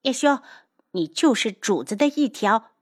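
high-pitched insult, cut short; brash, scornful jab; rude, blunt. Acted. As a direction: insult them without any courtesy. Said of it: "不客气地道".

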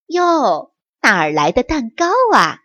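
quick, pleased surprise from mother mouse; a brisk delighted wonder; surprised. Acted. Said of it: "惊奇地问道". (妈妈惊喜地快速发问)

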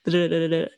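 "的，的，的，的" as a rapid string of light taps; flapped T sound. Shown as a demonstration. Teacher isolating what T becomes, repeated flaps. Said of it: "那个T变成".

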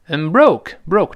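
"I'm broke" with weak "I'm", strong "broke"; stress on BROKE. Shown as a demonstration. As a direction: land firmly on "broke" after a reduced "I'm". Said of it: "重读了".

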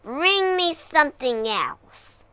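snarled demand. Acted. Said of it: "snarled the dragon".

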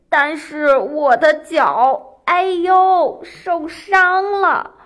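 slow, drawn-out mock moaning; feigned pain. Rabbit tricking fox about injured foot, feigned pain.

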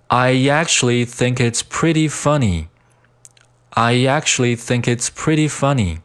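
"I actually think it's" flowing together, "pretty" with a d sound; linked phrase. Shown as a demonstration. Teacher modelling the whole sentence, "I actually think it's" linked. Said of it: "连读".

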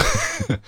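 short high laugh bursting out; burst of laughter. Real, not acted. Comic telling his classmate story, bursts out laughing. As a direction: let a sudden high laugh escape.

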